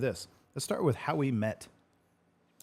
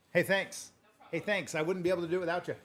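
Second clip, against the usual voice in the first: mock-sweet thanks; 8 semitones higher than usual. Cheery mock thanks to a helper.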